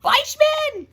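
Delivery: high, loud reveal of the name; surprised reveal. Acted. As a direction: announce him like a big surprise. Dramatic reveal of the voice.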